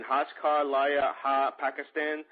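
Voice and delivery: slow Hindi slogan in a New York accent. Real, not acted. Host attempting the website slogan for the guest, New York accent. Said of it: "That's with a New York accent".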